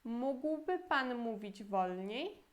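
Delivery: slow, careful Polish model sentence; slow teaching read; slow model phrase. Shown as a demonstration. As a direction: spell it out slowly for learners. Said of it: "E a pergunta toda".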